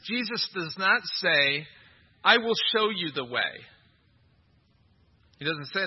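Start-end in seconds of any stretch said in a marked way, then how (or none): 0.0-3.7 "not" held long and pressed hard; stress on not. Shown as a demonstration. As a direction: lean into "not" to mark the contrast. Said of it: "Notice that Jesus does not say this".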